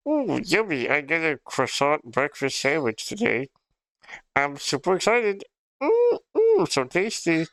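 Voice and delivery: put-on gushing childish delight, big yum; excited kid. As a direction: squeal happily over breakfast. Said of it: "I was like".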